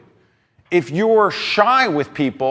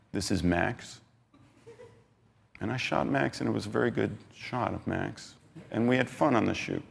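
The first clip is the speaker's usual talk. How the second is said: flat, much softer and lower, no energy at all; low-energy monotone; 6 semitones lower, 12 dB quieter than usual. Shown as a demonstration. Speaker showing the audience a dull presenter, low, soft and lifeless. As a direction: drone it out like you couldn't care less. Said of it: "And I talked like this the whole time".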